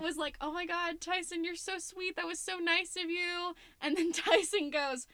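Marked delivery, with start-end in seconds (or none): 0.4-3.5 higher, slower mock gush; gushing friend. Lead actress gushing at Tyson after his compliment, mock gush. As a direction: lay the flattery on thick.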